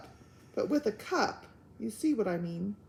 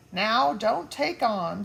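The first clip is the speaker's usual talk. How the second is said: uneasy; 6 dB louder, slower than usual. Acted. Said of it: "said Pod uneasily".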